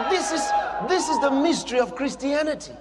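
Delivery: exclaiming. Real, not acted. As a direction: call it out to the congregation. Preacher exclaims to the congregation.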